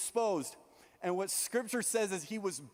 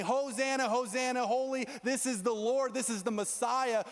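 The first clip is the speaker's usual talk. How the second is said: crowd acclaim; 6 semitones higher than usual. Acted. Crowd hailing Jesus as Messiah, high and joyful. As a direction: cheer him in like the crowd.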